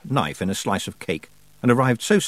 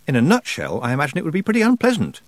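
nervous; 5 semitones higher, faster than usual. Acted. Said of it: "said Tiffany nervously".

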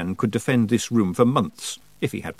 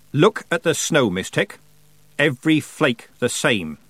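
lightly voiced, insistent character, slightly raised pitch; character monologue; 3 semitones higher than usual. Character sure the snowflakes are all the same, lightly voiced insistence. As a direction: lightly play someone pleased to catch them out.

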